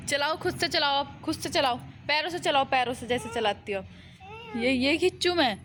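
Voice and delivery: high sing-song encouragement. Real, not acted. Talking to toddler on ride.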